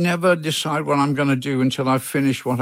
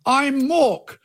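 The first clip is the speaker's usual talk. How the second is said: Robin Williams yelling; 10 semitones higher, much slower than usual. Retold or imitated. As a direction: call it out high, imitating an excited shout. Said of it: "put his head up and yelled".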